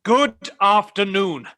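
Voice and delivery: slow, pointed goodbye; drawn-out, final dismissal; firm dismissal. Acted. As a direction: show him the door with slow, weighty words. Curt dismissal of nephew, said twice.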